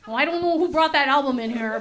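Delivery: lightly put-on parent from Wisconsin, unplaceable accent; parents' uncertain accent. Parent puzzled by a comedy album in the house, imitated odd Wisconsin accent. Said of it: "I don't know what accent that is".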